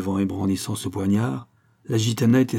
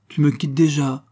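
higher, mildly pouting question; sulky; 5 semitones higher, 4 dB louder than usual. A narrator's reading. Fatima to her departing lover, sulky. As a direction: pout as he gets up to go. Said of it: "dit-elle d'un ton boudeur".

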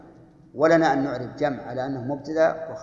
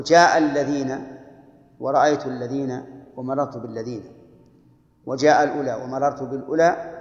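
slow example. Shown as a demonstration. Grammar teacher giving students an example sentence, slow and deliberate. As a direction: spell out the model sentence slowly. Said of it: "تقول".

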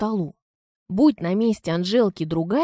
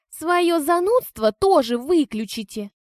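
high, slow, scornful sneer; disgusted; 8 semitones higher, 3 dB louder, slower than usual. Acted. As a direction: sneer down at her. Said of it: "скорчила брезгливую физиономию Анжела".

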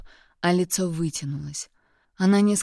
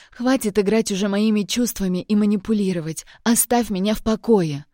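put-on furious, louder girlfriend yelling through tears; angry shouting; 3 semitones higher, 4 dB louder than usual. Girlfriend screams at Kirill in a hysterical quarrel, angry shouting. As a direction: throw the accusations at him, loud.

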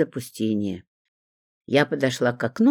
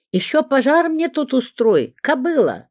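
much higher and louder yell; bawling; 11 semitones higher, 4 dB louder than usual. A narrator's reading. Zinka hollers after the neighbour who ran out, high and loud. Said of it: "завопила".

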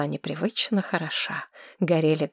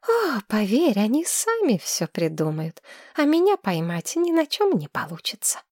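put-on high, breathless girl gushing in love; dreamy young woman; 5 semitones higher than usual. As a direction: swoon over him like a smitten girl. Tamira voice again.

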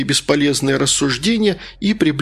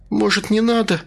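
higher, frightened plea; 8 semitones higher than usual. Acted. Margarita frightened, begging Malysh to stop. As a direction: anxiously beg him to stop. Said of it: "испуганным голосом".

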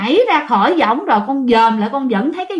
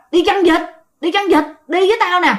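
ghost voice; 6 semitones higher than usual. Retold or imitated. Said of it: "cái người này nói".

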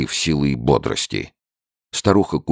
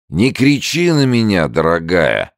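put-on much higher, louder drunken protest; drunk old man; 7 semitones higher, 5 dB louder than usual. A narrator's reading. Drunk old man to his wife, high tipsy protest.

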